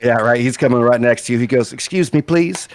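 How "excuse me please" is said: mildly put-on polite request; polite like an angry mom in public; strained politeness. Angry swimmer asks for the resident hermit, with a touch of strained politeness. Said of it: "she's really nice to the person".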